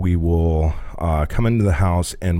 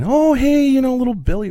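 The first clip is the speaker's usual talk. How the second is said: high fake-sweet mom voice; 3 dB louder than usual. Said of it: "she runs over and she grabs this kid".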